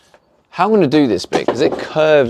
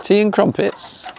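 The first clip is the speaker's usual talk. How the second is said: mock American, drawn out; 10 semitones higher than usual. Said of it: "they used to always be like".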